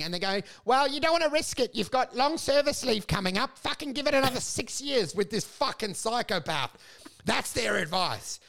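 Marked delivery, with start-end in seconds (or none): 0.6-6.7 mocking cautious advisers.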